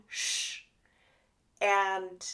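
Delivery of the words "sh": "sh" as a long unvoiced hiss; sh sound. Shown as a demonstration. Therapist showing teachers the S H sound. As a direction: hold out a soft "sh". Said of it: "the S H sound".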